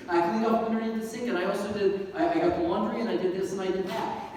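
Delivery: mock plea for credit, list piling up; eager boasting. Husband lists chores to unimpressed wife, eager boasting.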